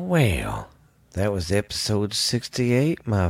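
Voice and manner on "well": a low, stretched-out well; low answering well; low drawn-out well. Acted. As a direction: drop the second well deep and long. Second well answers the first.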